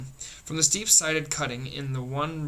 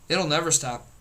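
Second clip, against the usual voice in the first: wailing. Acted. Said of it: "Missus Pettigrew wailed".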